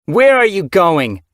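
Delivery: high, loud and slow; angry leader snarling at her daughter; snarling demand. Acted. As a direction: stop her with a menacing snarl. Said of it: "Windrunner's snarl".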